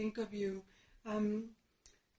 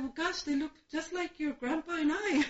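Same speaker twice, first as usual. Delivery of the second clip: laughing joke; 4 semitones higher than usual. Retold or imitated. Joking answer to granddaughter.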